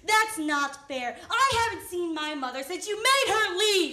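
upset, accusing complaint; hurt protest. Acted. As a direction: protest the unfairness and push harder as it goes. Acted quarrel about absent mother.

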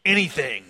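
"anything" set apart after a long pause; "anything" as a separate, pointed last word; emphasis on ANYTHING. Acted. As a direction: hold back, then land pointedly on "anything". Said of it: "a little emphasis on that last word".

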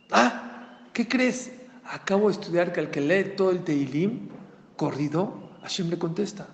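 excited tip to a desperate father; excited news. Retold or imitated. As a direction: burst out with the good news.

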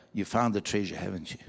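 put-on low, softening old man's voice; knowing old man. Old man leaning in to David, quietly knowing. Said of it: "leans in and looks at him and says".

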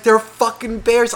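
high, loud, slowed-down protest; retold exasperated protest. Storyteller protesting to partner admiring bears, exasperated cry. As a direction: spell out the danger, high and loud.

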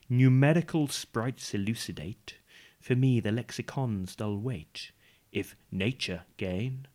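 slow, measured recital of a poem; slow poem reading. Shown as a demonstration. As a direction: recite each line slowly, with weight. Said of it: "I've got a poem for you".

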